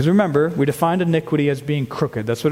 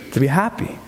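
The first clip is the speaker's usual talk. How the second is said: laughing. Real, not acted. Laughing repeat of scripture.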